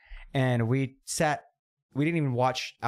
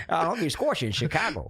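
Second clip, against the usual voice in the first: put-on Chicago accent. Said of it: "That's a good Chicago accent".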